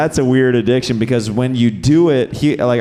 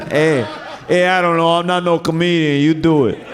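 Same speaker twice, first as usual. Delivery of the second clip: mock flustered heckler; 4 semitones higher than usual. Voicing the audience member's reply.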